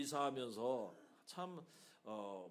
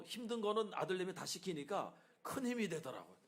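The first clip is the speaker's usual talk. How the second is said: laughing; 4 semitones higher than usual. Real, not acted. Laughing about son's help.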